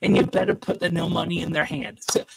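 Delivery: muffled underwater mic sound. Real, not acted. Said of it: "you sound like you're underwater again".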